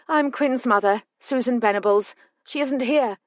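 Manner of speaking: a worried mother holding herself together; a hint of a tearful older mother; older woman's voice. Quinn's mother answers the door.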